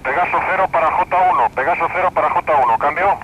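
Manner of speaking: broken-up radio signal; words cutting out over the radio; choppy police radio. Real, not acted. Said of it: "le recibo muy entrecortado".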